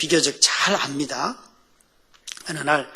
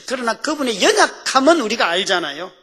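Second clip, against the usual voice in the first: higher, louder appeal to the congregation; emphatic preaching; 6 semitones higher, 6 dB louder than usual. Real, not acted. Preacher to congregation about the Lord's weakness, emphatic. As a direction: press the point home with raised pitch. Same point loudly, then whispered.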